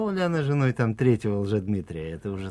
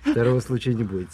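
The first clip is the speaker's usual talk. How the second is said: laughing; 4 semitones higher, 6 dB louder than usual. Real, not acted. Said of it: "Ещё раз диктую по слогам".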